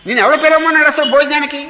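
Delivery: host berating the uninvited guest, loudly; indignant shout. Acted. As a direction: throw the question back hard. Mock host scolding guest.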